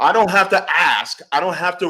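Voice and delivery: laughing through the words; real laugh in the voice. Real, not acted. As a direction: grin and laugh it out. Laughing while making his point.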